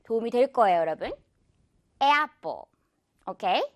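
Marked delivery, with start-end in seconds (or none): 2.0-2.6 apple as a careful "eh-appo" with stretched A; rubber-band A. Shown as a demonstration. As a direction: model apple with a long e-ah glide. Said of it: "에야 같은 느낌이라서".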